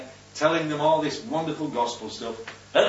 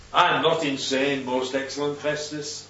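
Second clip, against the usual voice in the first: respectful reply. Acted. Prisoner replying to the shouting Roman, calm and respectful. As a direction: answer the outburst calmly and deferentially. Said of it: "he's very respectful".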